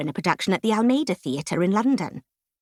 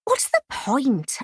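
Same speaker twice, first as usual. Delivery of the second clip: slow, higher, gloomy inner thought; 7 semitones higher, slower than usual. Retold or imitated. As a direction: sigh it out as if giving up, slowly. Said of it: "I sank into gloom".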